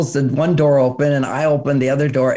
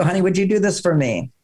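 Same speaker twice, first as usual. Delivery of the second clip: loving ask; 3 semitones higher than usual. Shown as a demonstration. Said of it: "with a loving point of view".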